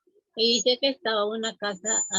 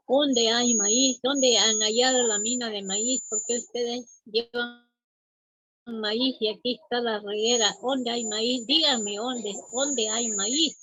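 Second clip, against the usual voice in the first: demanding witch. Acted. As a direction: press them hard for the answer like a greedy witch. Witch demands the corn mine.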